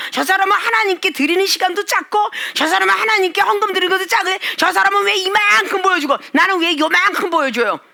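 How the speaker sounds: huffy complaint. Retold or imitated. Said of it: "이러면서 씩씩거린다고".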